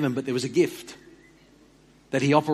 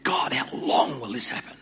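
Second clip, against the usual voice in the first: high, pleading complaint to God; a prophet's weary lament, voiced higher; a hint of anguished complaint; complaining to God; 5 semitones higher, 3 dB louder than usual. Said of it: "He opens his three little chapter book with".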